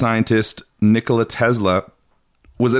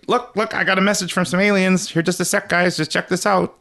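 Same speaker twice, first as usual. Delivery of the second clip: excited Tesla; 9 semitones higher than usual. Retold or imitated. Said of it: "he's like".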